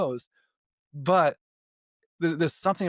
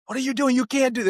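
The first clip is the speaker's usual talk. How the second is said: higher, panicked yell of an FBI boss; retold freak-out; 11 semitones higher, 4 dB louder than usual. Head of the FBI screaming at the criminal, retold panicked yell. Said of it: "he just is freaking out on him".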